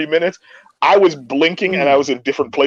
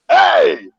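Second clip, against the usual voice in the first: high, shouted hey; acted-out high-pitched cheer; called-out greeting. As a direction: holler it out to your admirers. Acting out greeting his admirers.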